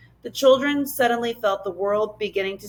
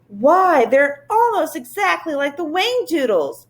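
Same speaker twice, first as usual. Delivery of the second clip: blurting; 7 semitones higher, 3 dB louder than usual. A narrator's reading. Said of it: "she blurted out".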